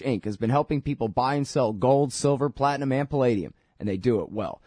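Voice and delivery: brisk, lively sponsor read. Real, not acted. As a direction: read it as a tidy radio sponsor spot. Reads sponsor ads.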